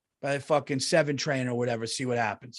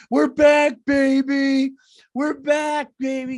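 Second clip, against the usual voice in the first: hammed-up high, loud cheer; mock cheering; 10 semitones higher, 7 dB louder, slower than usual. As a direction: crow it like a smug New Yorker. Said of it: "they're going".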